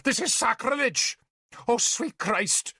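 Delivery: outraged wail. Acted. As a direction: wail to heaven. Bishop outraged.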